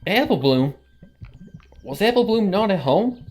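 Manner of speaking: stunned, calling out the name in alarm; shocked disbelief. Acted. Applejack shocked at sister.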